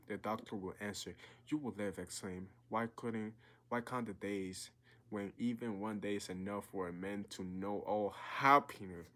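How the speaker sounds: earnest, measured read-aloud of a novel; story reading. A narrator's reading. Reading a novel passage aloud to his viewers, earnest storytelling voice. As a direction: read the passage to draw the listener in.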